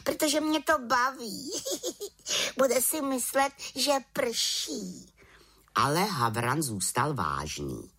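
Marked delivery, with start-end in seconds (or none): 0.0-1.5 giggling witch. A narrator's reading. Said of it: "Čarodějnice se pochechtávala". 1.6-2.5 high little chuckle; witch's giggle. A narrator's reading. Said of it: "Čarodějnice se pochechtávala". 2.6-5.1 giggling witch. A narrator's reading. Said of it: "Čarodějnice se pochechtávala".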